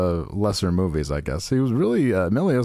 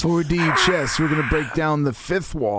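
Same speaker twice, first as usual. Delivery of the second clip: higher put-on Trump voice; Trump impression; 6 semitones higher than usual. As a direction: boast it like a rally speech.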